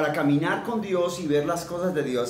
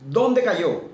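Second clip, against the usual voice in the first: urgent question; 7 semitones higher, 5 dB louder than usual. Acted. Elisha asks where it fell.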